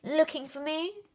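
surprised tiger. A narrator's reading. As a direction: ask it taken aback, pitch rising. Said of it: "said a rather surprised tiger".

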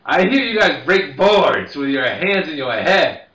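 put-on slurring, slow drunk taunt; a drunk shouting across the bar; drunk heckler. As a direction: jeer at him loudly, slow and sloppy.

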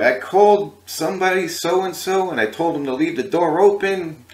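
high, loud indignant complaint; angry Elvis. Retold or imitated. Elvis scolding the guys over the door, angry. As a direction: imitate an irate boss telling people off. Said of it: "he was really angry".

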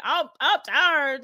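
put-on slow, halting stab at a Baltimore accent; badly faked Baltimore drawl; attempted Baltimore accent. Guest quoting Snoop's arrest video, faltering Baltimore accent. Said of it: "I can't even do the accent".

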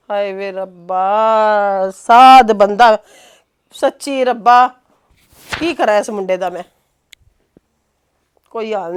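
ਹਾਏ ਵੇ ਰੱਬਾ drawn out very slow, pleading to God; slow, weary appeal to heaven; despairing lament. Acted. Mother laments her foolish son to God, slow and weary.

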